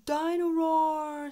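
slow, high, loud delighted call; excited toddler. A narrator's reading. George shouts for his toy in the bath. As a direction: call the toy's name gleefully.

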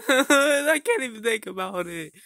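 high, slow tearful wail; crying. Acted. Mario breaks down as his friend soothes him, crying. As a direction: sob the words out theatrically.

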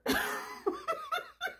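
sudden snort of laughter. Real, not acted. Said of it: "did I just snort?".

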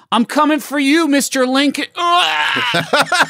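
high screamed dying threat; death cry. Shown as a demonstration. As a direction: scream your last words.

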